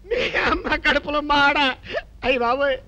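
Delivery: a hammed-up sob under the words; comic wailing. Scolded husband moaning to himself, mock crying. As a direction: curse and moan like a scolded man.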